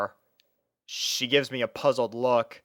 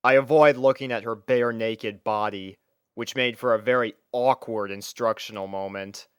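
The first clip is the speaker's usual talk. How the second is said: ordinary delivery, nothing marked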